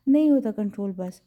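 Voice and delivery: a mild mock angry yell; angry shout. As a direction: snap back at the friend angrily. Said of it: "وہ غصے میں چلایا".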